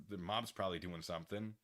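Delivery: normal talking voice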